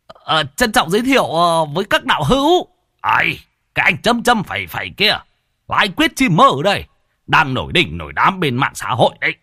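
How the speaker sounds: put-on old man Bạch showing off his famous guests, high and delighted. A narrator's reading. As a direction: introduce them proudly in a high excited voice. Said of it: "Ông cụ Bạch cũng hân hoan".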